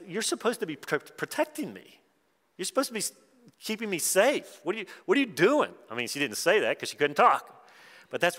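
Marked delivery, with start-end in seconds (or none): 0.1-5.7 a lightly voiced frightened baby pleading with her parents; imagined baby's plea. Baby girl pleading with her parents over the needle, lightly hurt and high.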